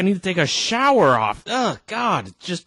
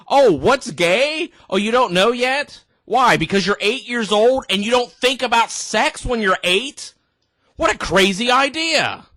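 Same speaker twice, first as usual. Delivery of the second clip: louder, higher sneering sarcasm; sarcastic mock; 5 semitones higher, 3 dB louder than usual. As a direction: sneer the questions back at the host.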